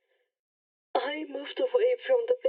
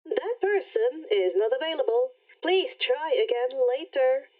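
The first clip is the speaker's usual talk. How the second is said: automated message. Acted. Rainbow rejects the call.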